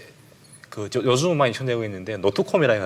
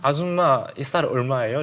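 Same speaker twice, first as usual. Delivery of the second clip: put-on South Korean accent; 4 semitones higher, slower than usual. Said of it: "북한 아줌마란 말을 안 쓰거든요".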